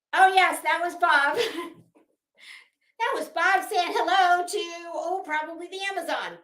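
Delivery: light up at the interruption; amused aside. Real, not acted.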